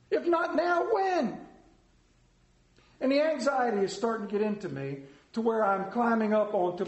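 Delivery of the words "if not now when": raised, emphatic question with a rise on not; preached theme line. Acted. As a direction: drive the challenge home to the congregation. Preacher builds to theme phrase.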